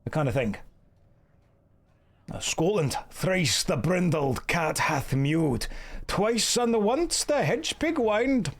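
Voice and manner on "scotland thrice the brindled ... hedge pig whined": slow, theatrical Macbeth in a Scottish-to-Indian accent; Scottish Shakespeare drifting Indian. Shown as a demonstration. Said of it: "start with any kind of Scottish, Macbeth".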